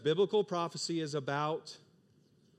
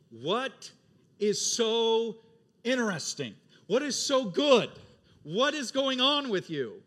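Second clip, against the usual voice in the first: much higher, louder astonished asking; amazed question; 8 semitones higher, 8 dB louder, slower than usual. Acted. An onlooker to Christians, asking in loud amazement. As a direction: ask in wide-eyed amazement.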